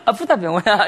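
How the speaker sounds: retold laughing complaint; lightly acted laughing protest; laughing through pain. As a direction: imitate a friend laughing while hurt. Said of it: "웃으면서".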